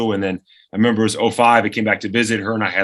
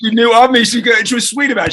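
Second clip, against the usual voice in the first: laughing; 11 semitones higher, 5 dB louder than usual. Real, not acted. Laughing while telling.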